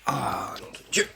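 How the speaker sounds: nose blowing through the words; talking while blowing nose. Real, not acted. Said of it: "faut que je me mouche encore".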